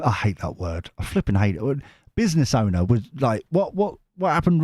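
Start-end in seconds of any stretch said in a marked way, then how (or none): none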